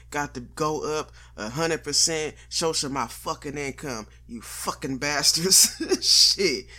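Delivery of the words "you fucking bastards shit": loud cursing burst, louder; angry outburst. Real, not acted. Venting at prices outpacing income, a loud angry curse. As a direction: spit it out at the bastards raising prices. Ranting about inflation.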